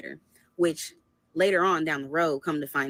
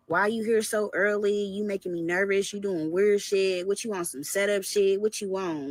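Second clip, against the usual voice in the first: mock fake upset; 4 semitones higher than usual. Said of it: "tries to fake act like he's upset".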